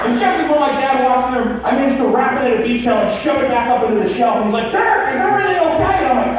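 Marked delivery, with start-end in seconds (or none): 4.7-6.1 high, concerned dad voice; lightly voiced worried father; imitating dad. Dad checking on son.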